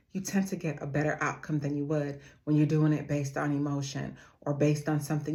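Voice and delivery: ordinary talk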